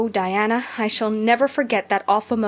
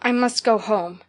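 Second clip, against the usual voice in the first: slow, dull, firm repetition; dull but determined. Acted. Diana dazed but stubborn, refusing Anne's tea. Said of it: "repeated Diana stupidly but determinedly".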